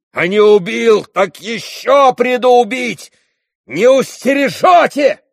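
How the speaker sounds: high, loud, slow menacing yell; threatening shout. A narrator's reading. Dmitri threatening his father with a high, loud shout. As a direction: threaten him at full voice.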